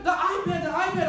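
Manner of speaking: high, loud frantic cry; panicked yell. Retold or imitated. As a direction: shout it desperately. Nephew panicking.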